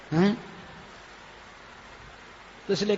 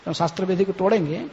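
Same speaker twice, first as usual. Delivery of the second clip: usual speaking voice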